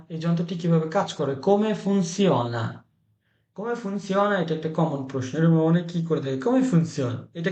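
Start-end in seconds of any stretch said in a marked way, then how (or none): 1.5-4.3 very slow, stretched-out Italian question; slowly enunciated classroom example; slow teaching model. Shown as a demonstration. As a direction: draw out each word for learners. Teacher models phrase slowly for learners.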